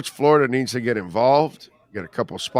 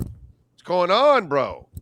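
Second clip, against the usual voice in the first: tag-along fan's protest; 5 semitones higher, much slower than usual. Acted. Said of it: "you're standing around going".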